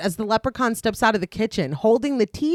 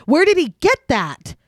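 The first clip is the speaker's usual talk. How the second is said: higher, a touch louder plea; pleading; 6 semitones higher, 3 dB louder than usual. A narrator's reading. Horrified leprechaun facing the clover, higher pleading voice. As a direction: beg in sudden fear. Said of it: "pleading with O'Grady".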